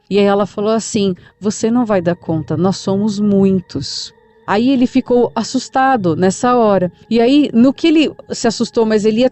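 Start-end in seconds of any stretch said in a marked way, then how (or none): 1.4-4.1 hint of a menacing spirit speaking through grandma, drawn out; possessed many-voiced. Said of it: "com uma voz mais masculina e meio que multiplicada".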